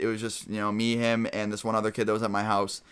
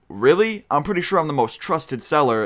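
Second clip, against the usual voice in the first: mock offended, higher-pitched reply; retold incredulous retort; 4 semitones higher than usual. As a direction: push back as if insulted, pitched up. Seller answers an accusation in retold argument.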